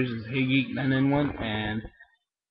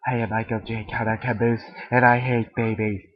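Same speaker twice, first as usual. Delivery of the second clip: lighter Caboose voice. Acted. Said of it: "hold back some of the deepness".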